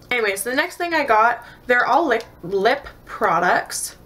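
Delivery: tired stutter, words repeated. Real, not acted. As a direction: trip over the words. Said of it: "Sorry if I'm stuttering a lot".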